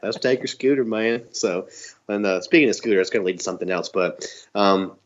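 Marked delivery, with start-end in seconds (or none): 0.0-1.2 put-on Mideon's Southern accent. Podcaster repeating Mideon's scooter line, mock Southern accent. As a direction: mimic a country Southern accent. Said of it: "it sounds just like that".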